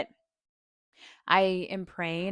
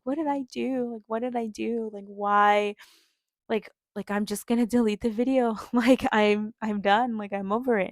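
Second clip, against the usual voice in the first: retold crying; 3 semitones higher, 4 dB louder than usual. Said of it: "I was just crying and crying".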